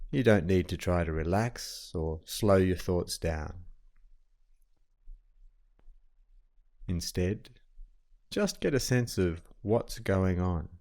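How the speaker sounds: calm, even meditation guide with long pauses; guided meditation. Acted. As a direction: settle the listener gently, leaving long silences between phrases.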